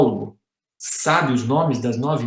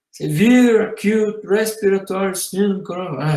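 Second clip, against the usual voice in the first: slow, drawn-out English name; laboured recitation; slower than usual. Shown as a demonstration. Reading out an unwieldy virus name, laboured and slow. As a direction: drag through the long name as a chore. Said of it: "até cansa de falar".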